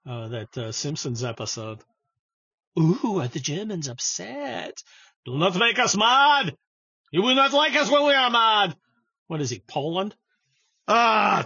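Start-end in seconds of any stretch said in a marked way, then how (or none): 2.8-8.8 hammy Burns-style villain menace; Mister Burns voice. Retold or imitated. Mocking upset Germans, done as Mister Burns. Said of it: "I sound like Mister Burns".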